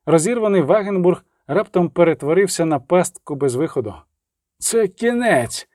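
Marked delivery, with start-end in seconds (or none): 4.6-5.7 shout. A narrator's reading. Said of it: "крикнув Ян Чапик".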